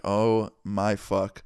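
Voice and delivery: slow, drawn-out disbelief; exasperated. Retold or imitated. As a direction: drag it out in dismay. Exasperated reaction to renewed vaping.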